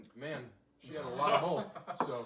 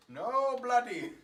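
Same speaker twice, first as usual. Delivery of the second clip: higher, louder Cockney yell of bloody; loud mock Cockney; 7 semitones higher, 6 dB louder, much slower than usual. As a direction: shout it like a rowdy London drunk. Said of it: "cockney accent".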